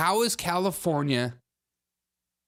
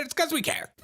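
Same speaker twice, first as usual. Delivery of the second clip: mock sincere. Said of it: "Is this one real and believable?".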